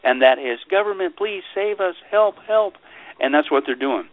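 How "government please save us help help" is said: mock plea. Voicing a public begging for rescue.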